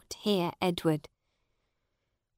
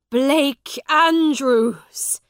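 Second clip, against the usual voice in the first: loud, slow calling out a name; shout; 7 semitones higher, 11 dB louder, much slower than usual. A narrator's reading. Miles recognising the old servant at the door, shouting. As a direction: call his name out in joyful surprise. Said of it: "shouted Miles".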